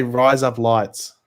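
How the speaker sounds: "Rise Up Lights" drawn out in the speaker's own voice; slow, even demo of "Rise Up Lights"; native demonstration. Shown as a demonstration. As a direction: say "Rise Up Lights" slowly so it sounds like Australian "razor blades". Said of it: "razor blades in an Australian accent".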